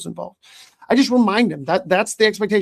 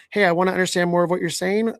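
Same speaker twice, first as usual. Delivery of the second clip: curious tone; faster than usual. Shown as a demonstration. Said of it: "with a tone of voice that says".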